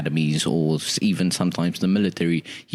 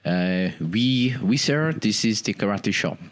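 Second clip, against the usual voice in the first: mock French accent. Answers French caller in French accent.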